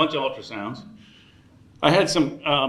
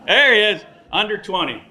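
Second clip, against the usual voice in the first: excited; 6 semitones higher, 5 dB louder than usual. Real, not acted. Spotting youngest guest.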